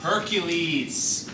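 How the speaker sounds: "Hercules" said slowly as HER-kyu-leez; correct pronunciation. Shown as a demonstration. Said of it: "am I pronouncing that right?".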